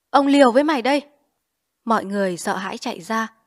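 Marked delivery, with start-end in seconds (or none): 0.1-1.0 high, loud cry while falling; desperate cry. A narrator's reading. Liễu cries at Trung after striking his head, loud and high. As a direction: hurl it out as he collapses. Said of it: "ngã gục xuống kêu".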